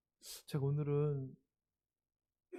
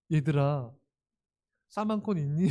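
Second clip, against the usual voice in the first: warm greeting; 5 dB louder than usual. Shown as a demonstration. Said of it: "예, 뭐 이렇게 좀 따뜻하게".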